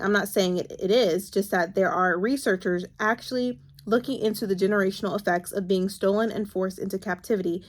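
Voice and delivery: steady read-aloud from a novel. Acted. Vlogger reads a book passage to her viewers, steady reading voice.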